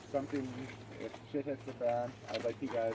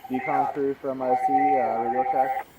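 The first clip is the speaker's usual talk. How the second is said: inside a helmet; 3 semitones higher, 14 dB louder, slower than usual. Real, not acted. Radio check through a mask.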